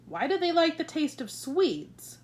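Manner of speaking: King of Sweden questioning the Queen, bewildered; puzzled king. Acted. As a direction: ask it baffled. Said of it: "the King asked".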